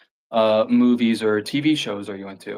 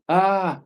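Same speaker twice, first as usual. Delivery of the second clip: mock scream; 9 semitones higher than usual. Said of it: "something going".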